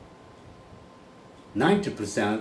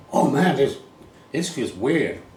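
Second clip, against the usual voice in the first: mock student; 5 semitones higher, 5 dB louder, slower than usual. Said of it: "and go".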